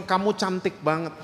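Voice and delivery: soft fatherly reassurance; gently retold praise; tender comforting. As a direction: soothe a child who has been crying, softly. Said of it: "saya gendong".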